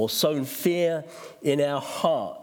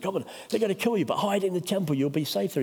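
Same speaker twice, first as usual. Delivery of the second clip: fast, higher urging voice; quick coaxing plea, pitched up; urging quote; 6 semitones higher, faster than usual. Retold or imitated. Plotters coaxing Nehemiah to hide, quick and urgent.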